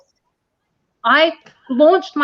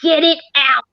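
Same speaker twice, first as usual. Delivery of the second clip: insistent demand; 6 semitones higher than usual. Retold or imitated. Woman insists to friend a spider is there. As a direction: spell it out firmly. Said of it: "I'm like".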